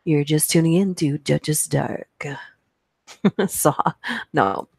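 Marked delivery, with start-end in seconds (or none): 0.0-2.2 smooth, lightly done radio host intro; a hint of a late-night DJ. Shown as a demonstration. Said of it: "This is my late night, uh, radio voice".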